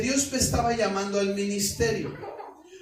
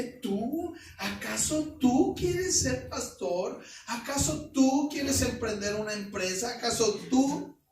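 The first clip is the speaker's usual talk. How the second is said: scornful doubt; 3 semitones higher than usual. Retold or imitated. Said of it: "y me sale con que".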